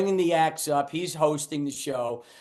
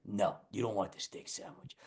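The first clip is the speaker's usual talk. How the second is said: low, hushed, much softer aside; quiet warning; 10 semitones lower, 14 dB quieter than usual. Retold or imitated. Cook secretly steering the comic away, hushed and low. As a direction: warn him off under your breath.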